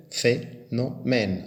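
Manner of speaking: Phénomène very slow, ph said as f: fé-no-mène; slow syllables. Shown as a demonstration. Teacher spelling out the sound for pupils, slow and syllabic. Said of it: "le P H se prononce F".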